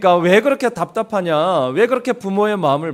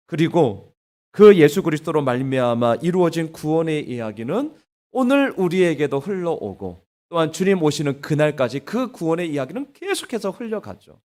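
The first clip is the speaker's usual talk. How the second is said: ordinary talk, nothing marked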